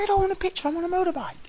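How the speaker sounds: high squeaky refusal; mock exasperated refusal. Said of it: "I'm like".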